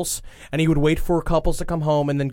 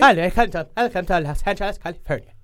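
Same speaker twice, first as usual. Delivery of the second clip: a lightly put-on California greeting accent; hammed-up California tour guide accent; mock California accent; 2 semitones higher than usual. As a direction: welcome a tourist in a goofy California accent. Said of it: "sounds oddly like your Irish accent".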